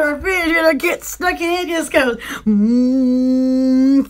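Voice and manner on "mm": low hum like a man. Retold or imitated. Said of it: "like a man".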